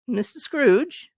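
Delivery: high, slow, amazed query; a gentleman who can hardly believe his ears; astonished old gentleman. Acted. Old gentleman startled as Scrooge greets him, amazed.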